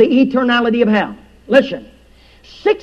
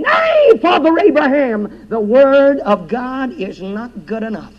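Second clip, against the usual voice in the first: anguished cry from hell. Acted. Preacher voicing the damned man pleading with Father Abraham, anguished cry. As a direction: beg Father Abraham like a lost soul.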